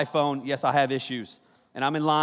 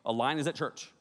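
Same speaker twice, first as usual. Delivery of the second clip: softer, mock-tragic lament; mock despair; 3 semitones lower, 7 dB quieter than usual. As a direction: sigh it like a church has failed. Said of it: "it's like".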